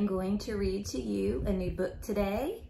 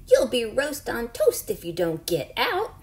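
louder, angry cook threat; angry cook chasing the animals; angry shout; 4 semitones higher, 6 dB louder than usual. Acted. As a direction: bark it like a furious cook. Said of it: "with an angry shout".

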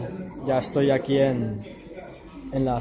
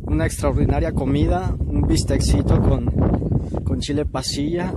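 shouting over wind; 5 dB louder than usual. Real, not acted. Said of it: "perdón por el viento, hace mucho aire aquí".

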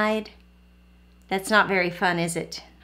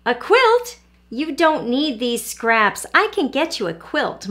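surprised mother; 3 semitones higher, 3 dB louder than usual. Acted.

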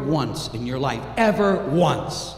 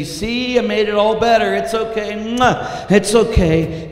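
cheery mother; 5 semitones higher, 4 dB louder than usual. Acted. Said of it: "kiss his knee and say".

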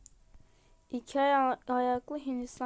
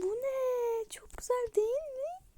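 whisper; 11 semitones higher than usual. Real, not acted. Marvelling at cute game items.

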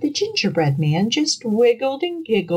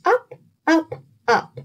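rising pitch; 10 semitones higher than usual. A narrator's reading. Cat leaping up.

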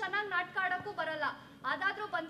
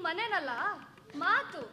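sharp retort; 5 dB louder, slower than usual. Acted.

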